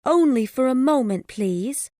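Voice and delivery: high, loud, anxious plea. A narrator's reading. Woman asks Gilbert to talk, anxious and high. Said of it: "said she anxiously".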